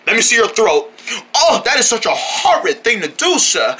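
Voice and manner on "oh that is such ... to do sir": put-on posh British accent. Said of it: "talking like that".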